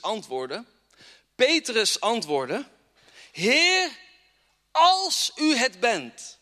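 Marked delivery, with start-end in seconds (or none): 3.3-6.4 pleading Peter. Acted.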